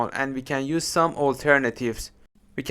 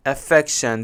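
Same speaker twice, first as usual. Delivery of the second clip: Affection said af-FEC-tion, weight on FEC; stress on second syllable. Shown as a demonstration. English teacher models word stress for learners, stressing FEC in Affection. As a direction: hit FEC in Affection clearly. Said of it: "the stress is on F".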